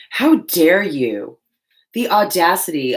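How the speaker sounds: slow, drawn-out indignation; mock outrage. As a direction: scold the paint dramatically.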